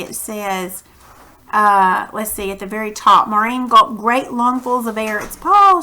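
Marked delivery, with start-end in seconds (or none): 5.2-5.8 higher-pitched exclamation, held back; a restrained storybook cry; mild read-aloud scream. A narrator's reading. Teacher reads Maureen's line to class, mild scream. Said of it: "she screams".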